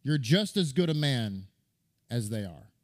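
fatherly advice. Retold or imitated. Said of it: "he said".

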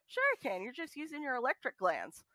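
imitating a wife's breezy denial, starting high; high-pitched opening, then offhand; dismissive comeback. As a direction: toss off a mock-confident rebuttal, pitch dropping after the start. Voices wife's dismissive comeback to husband.

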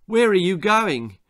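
mild mock shout; doctor calling after runaway patient. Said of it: "shouted the doctor".

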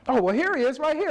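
lady matter-of-factly finding the lost father; church lady, casual. Retold or imitated. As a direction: toss it off like it's nothing.

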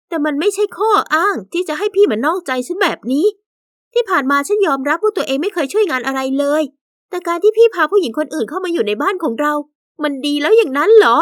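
bitter resentment. Acted. Wife confronts her cheating husband, bitter and resentful. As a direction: let the hurt sharpen into accusation. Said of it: "ด้วยน้ำเสียงคับแค้นใจ".

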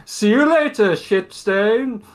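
high, loud taunt; mocking shout. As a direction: call out a jeer after fleeing kids. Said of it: "he just shouts after the kids".

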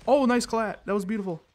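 thrilled gamer reaction; excited cheer. Real, not acted. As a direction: cheer your own great hit. Celebrating a good hit in game.

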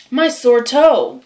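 milk a tiny ailment pitifully; pitiful complaint. Acted. Tom explaining his sore toe to his aunt, pitiful.

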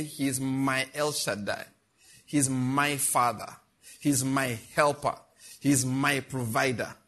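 slow, low solemn declaration for the church to repeat; declared confession. Shown as a demonstration. Pastor leading the congregation in a slow declaration. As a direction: lead the church in declaring God as theirs.

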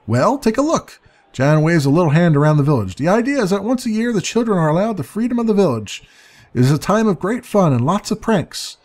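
a hint of a know-it-all fairy; lightly voiced sprite. Jan explains the festival.

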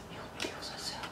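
breathless whispered awe; awed whisper. Real, not acted. Fan unboxing the album whispers in awe at a photo.

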